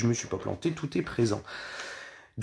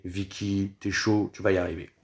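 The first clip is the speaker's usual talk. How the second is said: calming oneself; 2 semitones lower than usual. Real, not acted. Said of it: "j'essaie de me calmer". (en essayant de se calmer)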